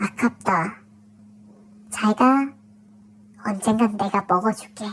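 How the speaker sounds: whispered, put-on whisper. Retelling how someone whispered again while leaving: imitating a whisper. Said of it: "누가 또 귓속말로".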